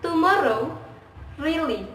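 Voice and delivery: "tomorrow, really" with each R clearly sounded; clearly pronounced R. Shown as a demonstration. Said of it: "R is clearly pronounced like".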